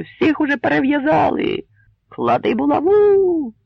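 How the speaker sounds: loud, high furious shout from the mob; angry crowd shout. A narrator's reading. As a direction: roar it like an enraged crowd. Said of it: "крикнули сотні розлютованих голосів". (розлютований крик юрби)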